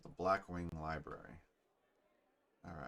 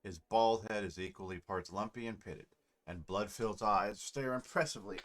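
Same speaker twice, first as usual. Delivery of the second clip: measured scene-setting narration; story narration. A narrator's reading. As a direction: read it like a fantasy storyteller. Reads game narration aloud.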